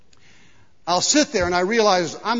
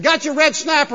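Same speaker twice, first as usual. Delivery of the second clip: higher-pitched mock-eager dad; teasing dad; 8 semitones higher, 6 dB louder than usual. Dad presents the covered dish to his boy, teasing. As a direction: play the dad setting up his prank. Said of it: "and he said".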